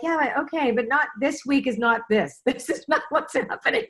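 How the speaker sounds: laughing retort. Retold or imitated. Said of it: "and I'm like".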